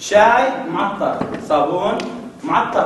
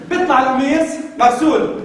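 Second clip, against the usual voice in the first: triumphant ad punchline; 4 semitones higher, 3 dB louder than usual. Pretend. Punchline of detergent ad.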